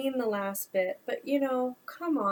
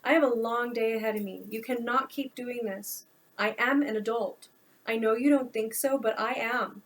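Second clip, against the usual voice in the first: exasperated son scolding his mother; an irritated adult son laying down the law; frustrated; 2 semitones higher, 4 dB louder than usual. Acted. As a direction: push back hard, fed up at the early hour. Noah confronts mother at 4am.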